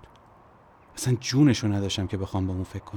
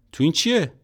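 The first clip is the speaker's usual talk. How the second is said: nervous question; 9 semitones higher, 7 dB louder than usual. Acted. Narrator asks nervously what's inside.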